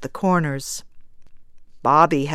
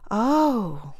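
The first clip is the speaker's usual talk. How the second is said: tender; 4 semitones higher than usual. Acted. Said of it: "a tender little cry".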